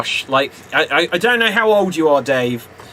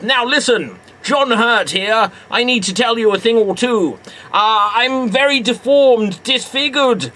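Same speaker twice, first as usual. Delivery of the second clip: higher, eager put-on voice; higher character voice; 5 semitones higher than usual. Improv, Elephant Man to the audience, higher put-on voice. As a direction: play the Elephant Man begging for an Oscar. Plays John Merrick/John Hurt.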